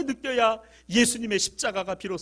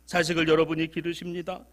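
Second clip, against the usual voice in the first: normal talking voice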